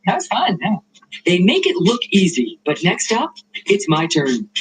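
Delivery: ordinary talk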